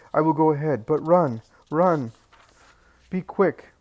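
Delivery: high, loud urgent call; desperate urgency. A narrator's reading. Old Eli urging Jesus to run, high loud desperate call. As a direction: hurry him along in desperation. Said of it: "desperation piercing his heart".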